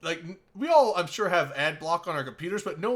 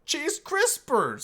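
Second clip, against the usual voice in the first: put-on high, drawn-out Hispanic accent; 12 semitones higher, 4 dB louder, much slower than usual. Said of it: "the voice you take on when you say that".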